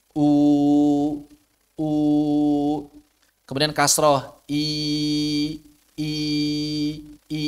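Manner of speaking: "U" and "I" held long and clear; over enunciating. Shown as a demonstration. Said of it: "Ini contoh saja bahwa monyong".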